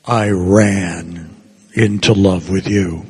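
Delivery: mock enthusiastic. Shown as a demonstration. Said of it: "a little more enthusiastic".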